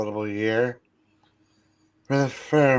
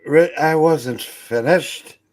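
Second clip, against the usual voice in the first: put-on stern old miser; 4 semitones higher, 4 dB louder than usual. Plays Scrooge scolding his clerk.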